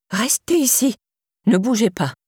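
lightly voiced old woman giving orders; a hint of a bossy old neighbour. A narrator's reading. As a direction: order him to stay put. Old neighbour orders Théo to stay.

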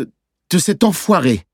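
put-on slow, deliberate, high child's voice; measured swearing. A narrator's reading. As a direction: weigh out the unfamiliar swear word. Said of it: "Il avait dit enfoiré d'un ton mesuré". (gros mot prononcé d'un ton mesuré)

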